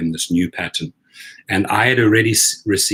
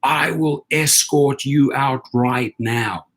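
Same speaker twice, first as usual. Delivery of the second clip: shrill-free but high angry clerk yelling him out; a retold angry threat, pitched way up; imitating her screaming; 8 semitones higher, slower than usual. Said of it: "And she starts screaming".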